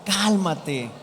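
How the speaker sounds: composed "Cálmate" with a falling end; right way, calming. Shown as a demonstration. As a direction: say "Cálmate" to settle someone down.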